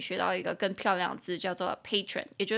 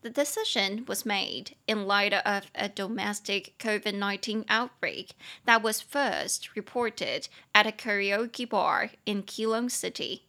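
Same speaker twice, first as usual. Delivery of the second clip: slow model read; slower than usual. Shown as a demonstration. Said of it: "那第二句是这样子".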